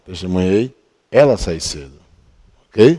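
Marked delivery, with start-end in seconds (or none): 0.1-1.9 brief break after testemunhei, then continuing. Teaching how to read a sentence aloud: pause after testemunhei. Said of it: "tem que ler assim. Testemunhei, aí dá uma pausa".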